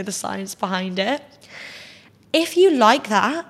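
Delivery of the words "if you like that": louder, higher hype cheer. Real, not acted. Telling viewers who love drama to go for it, cheering loudly. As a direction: pump them up like a friend.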